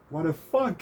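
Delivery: high-pitched mock outrage in a soft voice; Yuki's soft-spoken outrage. Former friend accusing the speaker, high soft-spoken outrage. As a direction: imitate a soft-voiced friend getting upset. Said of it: "That's how he said it".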